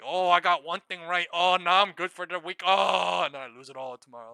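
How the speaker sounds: high, loud mock gloat, then fading to a quick fall; hammed-up smug trader crowing over one win. Streamer mocking a speculator's hoping and dreaming, high loud mock gloat. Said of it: "being like".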